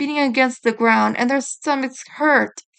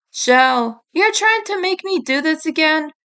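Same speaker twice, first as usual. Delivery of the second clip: accusing; 5 semitones higher than usual. Acted. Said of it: "Raph said accusingly".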